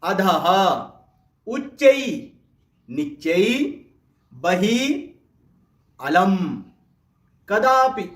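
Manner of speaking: pause-separated classroom drill words; pronunciation drill. Shown as a demonstration. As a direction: model each Sanskrit word for students to echo. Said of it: "मेरे साथ साथ आप भी बोलेंगे".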